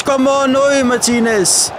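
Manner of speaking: desperate shout. Real, not acted. Fan watching the attack fail, anguished shout. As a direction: cry out as the chance goes.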